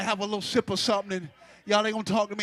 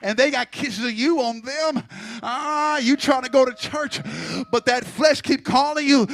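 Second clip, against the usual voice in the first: preaching; 4 dB louder than usual. Acted. Preacher builds again.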